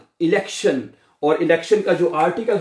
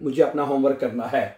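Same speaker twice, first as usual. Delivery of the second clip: quick translation; 3 semitones lower, much faster than usual. Shown as a demonstration.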